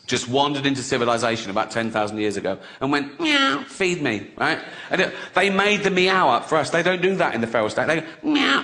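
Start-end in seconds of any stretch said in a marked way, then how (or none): 3.2-4.3 mock cat meow. Cat imitated. 8.2-8.6 squeaky high meow; a cat's meow, pitched up; playful high cat meow; high mock meow. Cat imitated.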